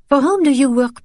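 high, sharp demand. Acted. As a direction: press him for the truth. Daughter demands answer, +10 st.

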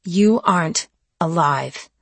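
slow, through gritted teeth. Acted. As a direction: force it through clenched teeth. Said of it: "I said through gritted teeth".

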